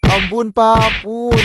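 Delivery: pretend scream for mercy. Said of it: "Abis ini kamu pura-pura teriak ya".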